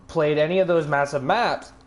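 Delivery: talking through a burp; burpy words after a soda. Real, not acted. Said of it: "Sorry, I'm burping a lot".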